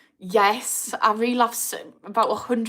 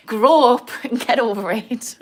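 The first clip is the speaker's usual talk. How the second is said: louder exasperated; 3 semitones higher, 7 dB louder than usual. Real, not acted. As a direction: grow up punched louder. Ranting at woke critics.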